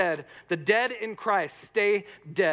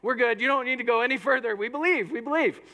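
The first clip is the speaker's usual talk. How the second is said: quick, higher, eager surrender; eager giving in; 5 semitones higher than usual. Pretend. Corinthian giving up the argument, eager and quick. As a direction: blurt out belief like a cornered Corinthian. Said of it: "you'd just be like".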